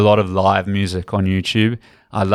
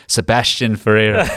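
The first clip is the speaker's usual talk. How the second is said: put-on South African accent. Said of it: "Comes back in a South African accent".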